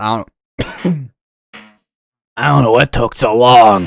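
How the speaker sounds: loud movie-trailer announcer voice. Commenting on storm warnings finally showing up, sounding like a movie character. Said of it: "I don't know why I sound like a movie character".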